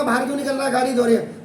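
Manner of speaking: urgent call to a driver, retold; mock-alarmed callout; retold warning. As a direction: warn him off in a hurry. Calls out to truck driver.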